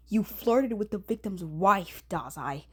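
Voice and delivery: ordinary delivery, nothing marked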